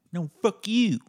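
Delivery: yelled high and loud, topping the insult; mock shouted comeback.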